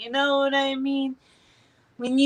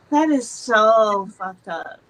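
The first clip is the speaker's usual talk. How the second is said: fed up; 5 dB louder, slower than usual. Retold or imitated. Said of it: "I'm so fucking mad".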